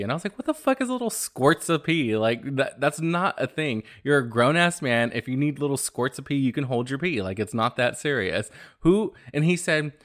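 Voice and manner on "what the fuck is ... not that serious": higher, appalled rant at a grown man; disgusted scolding. Retold or imitated. To coworker about squirts of pee, disgusted scolding. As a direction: scold him in disbelief.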